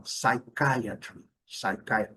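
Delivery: slow "psychiatry" as sai-KAI-a-tri; pronúncia cuidadosa. Shown as a demonstration. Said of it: "a gente tem que ter cuidado". ("psychiatry" devagar, soando "sai-CAI-atri")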